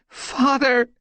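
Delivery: high, loud anguished yowl. Acted. Squirrelpaw crying out to her father, anguished yowl. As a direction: yowl for him in despair. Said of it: "she yowled".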